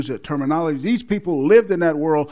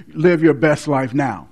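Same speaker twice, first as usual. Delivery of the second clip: mocking TV preacher; 5 dB louder than usual. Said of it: "they'll smile at you on television and tell you".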